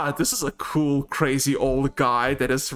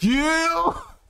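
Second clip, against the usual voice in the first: very high, shrill, drawn-out accusing yell. Voicing a character who points at a woman: yelling accusingly. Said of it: "instead of just yelling at her".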